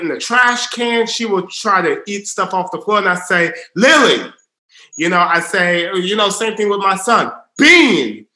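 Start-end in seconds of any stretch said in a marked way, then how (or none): 3.7-4.3 put-on louder call to a toddler; calling her name. Father calling his daughter Lily away from the trash, louder. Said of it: "the louder I get to catch their attention". 7.6-8.3 put-on louder call to a little boy; calling his name. Father calling his son Bean to catch his attention, louder. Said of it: "the louder I get to catch their attention".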